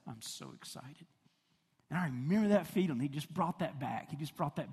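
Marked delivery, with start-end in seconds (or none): 0.1-1.1 put-on small kid voice. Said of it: "he would just say".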